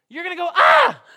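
high, loud startled shriek; mock terrified gasp. Pastor acting a shepherd startled by the angel, hammed-up shriek. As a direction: yelp like a shepherd seeing an angel.

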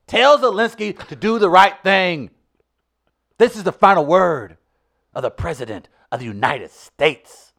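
Dutton-style speech. Acted. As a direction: build and resolve like a pep talk. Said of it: "channel that part of Charles S. Dutton".

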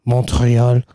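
slow, low boarding call voice; airport announcement. Pretend. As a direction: announce the gate like an airport tannoy.

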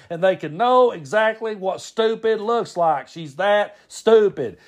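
high-pitched imitated exasperated rant; Brad impression, upset. Brad rants about the aunt's stupidity, upset impression. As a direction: rant emphatically, far up in pitch, slowing at the end. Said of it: "he's really upset about it".

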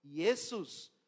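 "Jesús" as "Iesus", opening on "ie"; Greek pronunciation. Shown as a demonstration. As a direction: say "Jesús" with an I-E start, no Spanish J. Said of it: "Se usa la I E".

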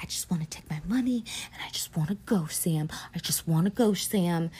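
breathless whisper, pleading to leave; wife whispering she just wants to go; whispered plea. Retold or imitated. Wife whispering to husband she wants out.

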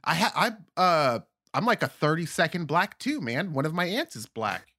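high, eager boasting of a tiny fraction; mock claimant. Acquaintance eagerly claiming black ancestry. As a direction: play a proud oblivious acquaintance. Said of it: "they'll be like".

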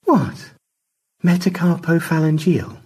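METACARPOPHALANGEAL said high and coy; high-pitched, teasing "Metacarpophalangeal"; teasing repeat. A narrator's reading. Repeating the word on Stanley's request.

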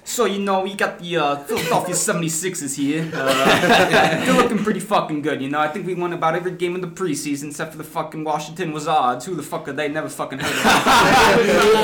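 hammed-up Philly accent, sports fan bragging. Podcaster hypes the Sixers on request, mock Philly accent. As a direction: put on your best brash Philly accent. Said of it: "give it to us in your best Philly accent".

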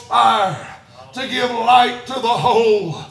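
driving preacher's cadence; impassioned preaching. Real, not acted. Preacher declaring scripture to the church, impassioned cadence. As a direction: proclaim it in pushed phrases with punched endings.

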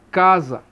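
casa with a very weak za; casa, stressed CA and faint za; weak final syllable. Shown as a demonstration. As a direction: let the za in casa drop away after CA. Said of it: "o Z você pronuncia bem fraquinho".

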